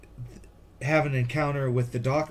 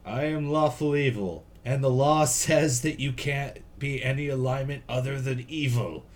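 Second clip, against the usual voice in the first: wild unhinged ranting; 3 dB louder than usual. Retold or imitated. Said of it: "What doesn't make sense is going".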